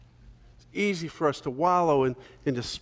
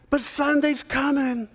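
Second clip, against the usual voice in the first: high, slow call-back; mock congregation reply; 10 semitones higher than usual. The congregation answering the preacher, high call-back. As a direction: answer like a whole church shouting back. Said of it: "the whole congregation screams back".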